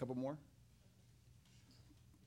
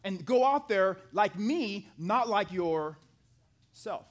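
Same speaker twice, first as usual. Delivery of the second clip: louder, pressing, slowing at the end; urgent command; 3 semitones higher, 5 dB louder, slower than usual. Retold or imitated. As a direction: urge him hard, then slow it down. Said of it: "He's saying".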